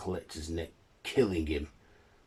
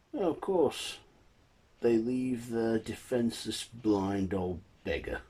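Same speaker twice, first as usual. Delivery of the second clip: lightly voiced bully, pitched up; a touch of scornful aggression; aggressive debt collector; 4 semitones higher, 3 dB louder than usual. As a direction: jeer a little as the debt collector. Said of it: "an aggressive debt collector comes and says".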